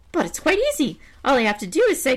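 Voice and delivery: very high crow voice. Acted. Crow eyes the bear's sack, very high. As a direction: squeak it like a nosy crow.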